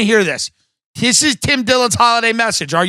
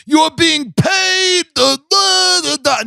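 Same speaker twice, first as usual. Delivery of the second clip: mocking angry fans; 8 semitones higher, slower than usual. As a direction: sputter like an offended listener losing it. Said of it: "All of you get mad 'cause you think".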